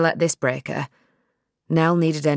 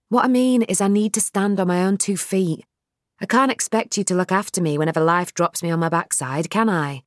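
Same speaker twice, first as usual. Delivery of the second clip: Nell's voice; 3 semitones higher than usual. Acted.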